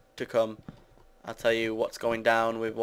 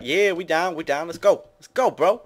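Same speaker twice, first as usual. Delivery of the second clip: higher, louder hype-man voice; mock bro enthusiasm, pitched up; hyped-up bros; 6 semitones higher, 5 dB louder than usual. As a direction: imitate pals cheering each other on. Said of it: "people are like".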